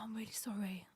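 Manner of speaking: very quiet, small-voiced retold apology; meek apology. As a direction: barely voice it, like a sheepish admission. Boyfriend's sheepish apology retold.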